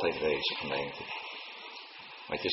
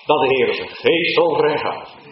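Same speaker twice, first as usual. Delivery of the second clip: fervent cry; 6 semitones higher, 8 dB louder than usual. Acted. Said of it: "En toen zei hij".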